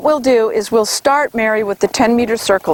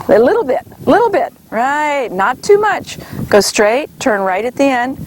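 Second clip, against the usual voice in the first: brisk projected riding commands. Real, not acted. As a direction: call it out to the rider. Coach calling corrections to rider.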